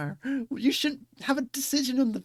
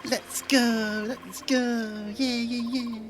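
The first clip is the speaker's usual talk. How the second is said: cheering; much slower than usual. Real, not acted. Cheering the monument.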